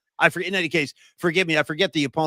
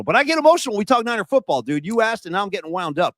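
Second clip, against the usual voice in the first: getting worked up; 4 semitones higher than usual. Real, not acted. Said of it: "I'm getting emotional".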